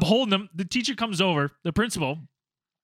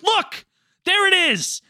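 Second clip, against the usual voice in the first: high, loud, laughing gotcha; triumphant reveal; 10 semitones higher, 5 dB louder, slower than usual. Retold or imitated. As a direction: present the proof with glee. Retold showing the evidence triumphantly.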